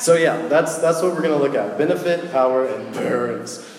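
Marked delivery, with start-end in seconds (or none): 1.8-3.6 grudging, sulky listing; a dragging, unwilling list; reluctant listing. Shown as a demonstration. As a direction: say it like it's a chore. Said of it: "don't say it like that".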